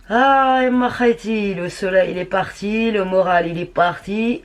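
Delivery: hammed-up plaintive moan with lifted phrase endings; mock lament. Vlogger moans to viewers about lost morale, mock lament.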